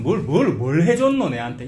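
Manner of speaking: acted indignant demand in dialect; accusing challenge. Preacher voices ungrateful people confronting God, accusing. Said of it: "이런 식으로 따지는".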